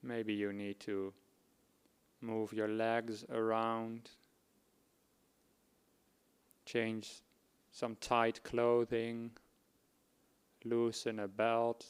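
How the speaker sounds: measured instructions, pausing between phrases; guided meditation. Acted. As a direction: guide them unhurriedly into body awareness.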